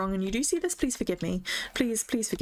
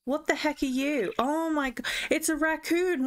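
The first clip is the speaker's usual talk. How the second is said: higher, startled delight; surprised at a raccoon staring back; rising, amazed exclamation; 6 semitones higher than usual. Real, not acted. Spots a raccoon.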